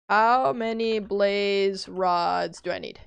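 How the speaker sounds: slow, drawn-out question; slow deliberate ask. Real, not acted. Streamer repeating her question to chat, slow and deliberate. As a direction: spell it out slowly for chat.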